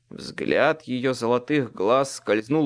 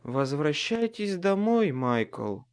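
put-on slurring like a drunk; thick-tongued slurred words; slurred drunk speech; 2 semitones higher than usual. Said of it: "заплетающимся, как у пьяного, языком".

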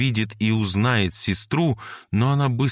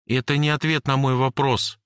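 put-on higher girl's voice, accusing and insistent; Jane's voice; 7 semitones higher than usual. Jane accuses Cory of hiding something, lightly voiced girl. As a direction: press him hard, she doesn't believe him.

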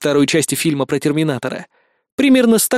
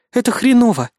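plain reading voice

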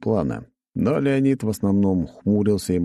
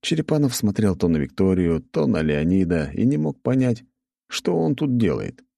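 ordinary delivery

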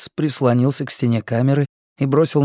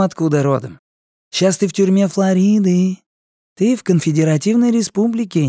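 higher, sneering junkie voice; mocking inmate; 5 semitones higher than usual. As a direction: taunt him with a smirk. Guatemalan lectures Karl.

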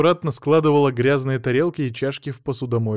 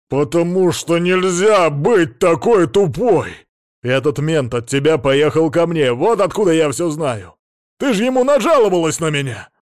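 angry shouting; 5 semitones higher, 8 dB louder than usual. Acted. Husband scolding his foolish wife, angry shouting. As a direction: hammer each word in rage.

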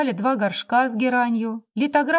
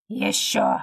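a low, clipped single word; curt bark. A narrator's reading. Drunk husband demanding more money, a low curt order. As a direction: bite it off short and low. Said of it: "отрывисто сказал он".

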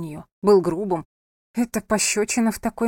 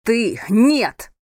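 louder sharp yell; shout; 3 semitones higher, 7 dB louder than usual. A narrator's reading. Angel shouts at his defiant wife. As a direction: cut her off with a shout. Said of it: "крикнул он".

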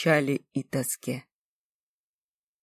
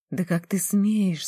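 breaking into a shout; 4 semitones higher, slower than usual. Acted. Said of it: "сорвалась на крик девица".

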